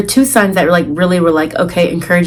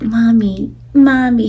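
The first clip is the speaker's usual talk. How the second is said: lightly voiced puppy calling for mommy; a hint of a needy little pup; voicing a puppy; 4 semitones higher, slower than usual. Puppy greeting new owner, lightly voiced.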